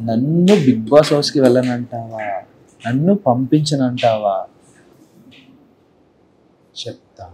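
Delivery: low, slow creepy psycho questions; a hint of a menacing madman, drawn out low. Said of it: "psycho".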